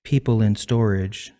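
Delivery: measured, understated recital with falling line ends; poetry reading. Acted. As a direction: read it evenly, letting each line settle. Host reads own poem.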